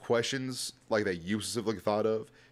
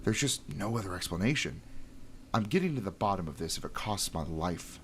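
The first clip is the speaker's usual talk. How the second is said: nerdy voice. Acted. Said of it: "So I gave him a really nerdy voice".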